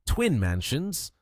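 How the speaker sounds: slow, rising disbelieving "Twin Mansions?"; surprised. Acted. Lin Yi echoing the prize, stunned and rising. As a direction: savour the name in disbelief.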